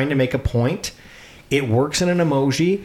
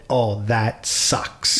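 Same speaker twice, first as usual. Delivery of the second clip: sympathetic; 3 semitones lower, much slower than usual. Shown as a demonstration. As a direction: drag it out with sympathy. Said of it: "I should have said".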